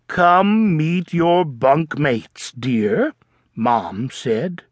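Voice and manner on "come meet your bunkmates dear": slow, gentle coaxing; soothing mom. Acted. Mom coaxing homesick Froggy, slow and gentle. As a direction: ease him along gently.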